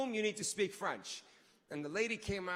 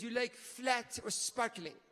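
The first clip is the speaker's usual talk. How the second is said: put-on slow French-accented question; slower than usual. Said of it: "the way she said flat".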